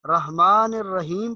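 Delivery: رحمان الرحیم with a plain light h; wrong soft ha. Shown as a demonstration. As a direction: soften ح to ordinary h in رحمان الرحیم. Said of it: "ہا کی آواز نہیں آنی چاہیے". (رحمان الرحیم میں ہلکی ہا)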